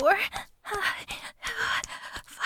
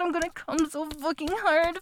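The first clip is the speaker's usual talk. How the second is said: ordinary talk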